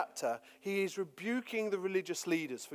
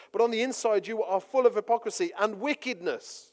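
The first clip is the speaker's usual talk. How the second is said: loud preaching rebuke; assertive rebuke; 3 semitones higher, 5 dB louder than usual. Retold or imitated. Preacher voicing Jesus scolding the leaders, forceful. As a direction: drive it home to the elite. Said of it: "these aren't soft words".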